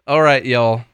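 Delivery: loud Tennessee twang; Tennessee accent. Shown as a demonstration. Co-host proves he's from Tennessee, Southern accent. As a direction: show off a Southern accent, with punch. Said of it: "how you can tell I'm from Tennessee".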